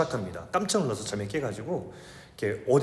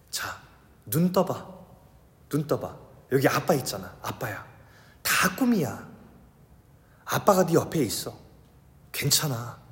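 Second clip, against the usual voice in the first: soothing. Retold or imitated. Father telling his scared child he is here, soothing. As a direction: hold the child and calm them. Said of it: "이렇게 얘기해줬어요".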